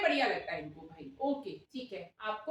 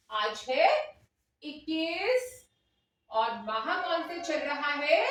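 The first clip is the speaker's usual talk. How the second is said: demo primary teacher; 3 semitones higher than usual. Pretend. Demo teacher greeting and quizzing her class, lilting teacher voice. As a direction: address little children clearly and encouragingly.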